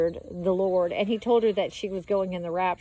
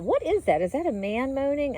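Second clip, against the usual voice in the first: higher-pitched, puzzled inner voice; puzzled questioning; 4 semitones higher than usual. Retold or imitated. Dreamer wondering about a strange sound, puzzled questioning. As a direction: wonder it aloud, pitch jumping up.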